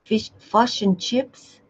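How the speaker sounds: slow attempt at a New Zealand accent. Shown as a demonstration. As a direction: try "fish and chips" in a Kiwi accent, slowly. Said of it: "New Zealanders sound a bit like that".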